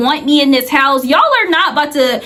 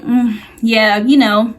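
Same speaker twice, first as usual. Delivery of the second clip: irritated; 6 semitones lower than usual. Retold or imitated. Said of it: "she was really irritated by that".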